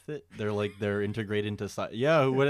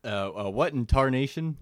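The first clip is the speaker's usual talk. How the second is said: put-on old prospector; 3 semitones higher, 3 dB louder than usual. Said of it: "Oh, that's good".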